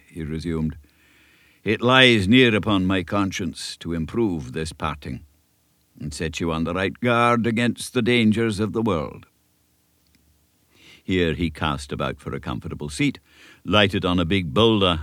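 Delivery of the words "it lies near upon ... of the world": lightly voiced elderly Scottish minister, earnest; a kindly country minister giving counsel; old Scots minister. Minister advising young Davy, a light Scots earnestness.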